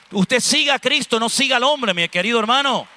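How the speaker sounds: fervent exhortation. Acted. Preacher exhorts congregation.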